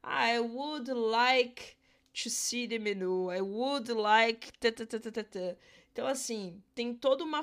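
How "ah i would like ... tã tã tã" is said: slow, drawn-out courteous ask; formal polite request. Shown as a demonstration. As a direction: order like a proper English diner. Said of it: "expressão muito comum".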